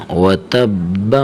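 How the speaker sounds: و تب with the final ب bounced as qalqala. Shown as a demonstration. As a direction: end و تب with a slight echoing bounce on ب. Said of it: "با کو تھوڑا سا قلقلہ دینا ہے".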